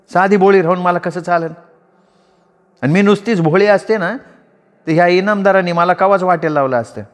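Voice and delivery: put-on sly, knowing young woman; Panchfula's voice. A narrator's reading. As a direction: tease the lady with a knowing edge. Panchfula answers.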